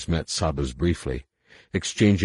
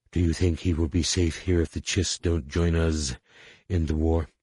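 reptilian alien voice. Acted. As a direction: growl it like a lizard alien. Saba voiced, alien timbre.

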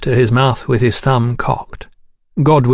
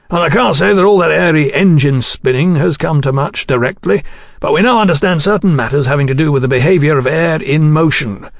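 higher, lively engineer's explanation; Godwin, keen engineer; 4 semitones higher than usual. Acted. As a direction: explain the mechanics with eager lift.

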